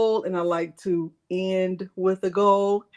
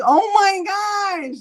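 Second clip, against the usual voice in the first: laughing oh my gosh; 9 semitones higher, 5 dB louder, slower than usual. Retold or imitated. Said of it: "I'm like".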